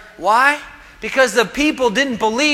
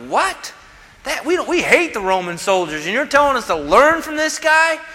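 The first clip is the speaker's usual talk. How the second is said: a high, incredulous "What?" that rises into protest; indignant disbelief; 5 semitones higher than usual. Retold or imitated. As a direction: voice the offended Pharisees, pitched up. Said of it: "Jewish leaders would have been going like".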